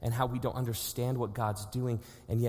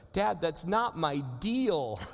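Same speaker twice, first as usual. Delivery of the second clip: lightly voiced little boy, higher and slow; son's whine; 4 semitones higher, slower than usual. Son Micah protesting bedtime, mild childish whine. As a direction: stretch it out like a stubborn kid. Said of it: "He'll go".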